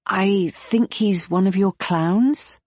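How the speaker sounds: slow, hesitant guess; unsure question. Acted. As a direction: feel for the word as you ask. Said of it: "she struggles for the right word".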